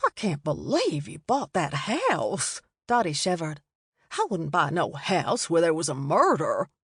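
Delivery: a superstitious lady with a shiver; lightly voiced Dottie. A narrator's reading.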